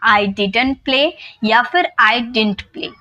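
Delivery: "didn't" in "I didn't play" first as did-unt, then as one quick dint, slow; both didn't pronunciations. Shown as a demonstration. Teacher models both variants slowly for learners. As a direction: model the sentence twice, swapping the way "didn't" is said. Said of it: "दोनों इसकी pronunciation होती है".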